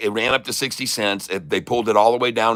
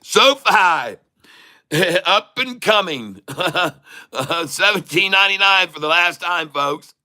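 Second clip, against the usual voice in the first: higher auctioneer-style call; mock auctioneer; 6 semitones higher than usual. Streamer auctioning the stock, mock auctioneer. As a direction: sell it off like at auction.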